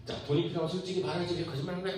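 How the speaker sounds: high, rapid acted scolding; nagging mother. Mother asking child why lie for money, high fast nagging. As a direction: imitate mom nagging in one high stream. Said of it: "막 이렇게 잔소리를 했어".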